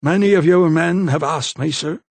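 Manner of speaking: a touch of smug insolence; lightly voiced smirking young man. A narrator's reading. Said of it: "Pike simply smirked".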